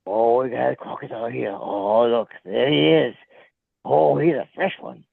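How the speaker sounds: understated Australian crocodile hunter; Steve Irwin. Acted. Showing viewers a fresh crocodile, understated Australian narration. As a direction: point out the croc in mock Australian. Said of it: "Oh, you mean Steve".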